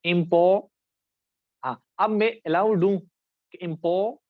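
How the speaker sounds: इम्पो- cut off after the first part; syllable split demo. Shown as a demonstration. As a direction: break इम्पो- off and stop mid-word. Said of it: "जो syllable है".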